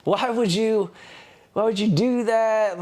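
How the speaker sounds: high-pitched mock scream; imitated screaming. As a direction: mimic her shrieked accusation without full volume. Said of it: "she's screaming. She's like".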